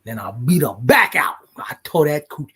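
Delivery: whispered, half-hiding the boast; cheeky whisper. Real, not acted. Husband teasing about his wife on the podcast, whispering. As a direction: whisper it like a naughty secret.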